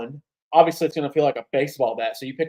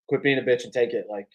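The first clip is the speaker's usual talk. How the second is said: mock scolding; 4 dB louder, faster than usual. Retold masseuse scolding Deebo.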